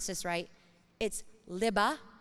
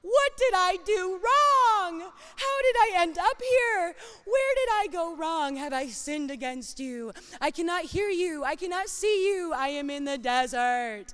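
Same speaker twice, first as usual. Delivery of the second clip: desperate lament; 7 semitones higher, 4 dB louder than usual. Retold or imitated. Preacher voicing a believer lost in the desert, anguished pleading. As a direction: wail it like a lost soul in the wilderness. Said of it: "found yourself in a desert season and gone".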